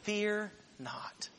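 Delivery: soft whispered fear not; whispered reassurance. Retold or imitated. Moses calming the crying Israelites with a whisper. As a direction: breathe it out gently. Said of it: "He says".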